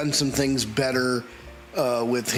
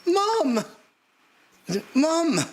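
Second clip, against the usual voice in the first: high, desperate calls for mom; anguished calling. Acted. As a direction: call out to her in grief. Calling the dead mother.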